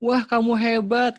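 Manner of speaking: loud, high, drawn-out admiration; gushing praise. Shown as a demonstration. Parent praising a child straight away, gushing. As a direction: overdo the instant praise, high and slow. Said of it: "jangan langsung memuji dulu".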